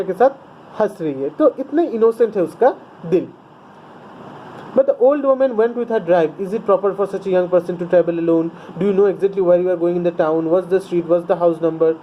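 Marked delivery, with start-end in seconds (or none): 4.8-11.9 curt. A narrator's reading. Teacher reads the English text.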